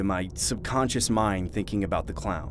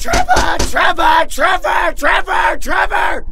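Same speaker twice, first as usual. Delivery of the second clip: shrieked, very high and loud; manic, piercing clown screams; screaming clown; 12 dB louder, slower than usual. Acted. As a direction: scream the name over and over like a crazed clown. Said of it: "screaming my name, Trevor, repeatedly".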